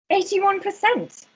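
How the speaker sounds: high, drawn-out exclamation; acted triumph. Election official hearing the TV announce results, triumphant. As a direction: proclaim the number slowly, voice lifted.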